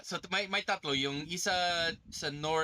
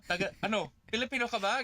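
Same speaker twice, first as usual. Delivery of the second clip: eager, laughing, higher voice; laughing question; 9 semitones higher, faster than usual. Retold or imitated. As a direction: ask it with a delighted laugh.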